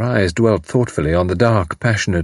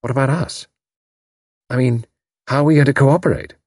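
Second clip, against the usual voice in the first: mildly brisk, higher-pitched practical query; businesslike; 6 semitones higher than usual. A narrator's reading. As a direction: put it as a practical matter. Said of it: "said in a businesslike tone".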